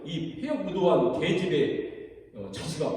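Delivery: drawn-out mock curse from an angry king; a hint of a furious king's slur; slow cursing insult. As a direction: spit the insult out slowly. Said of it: "엄마를 뭐라고 얘기하냐면".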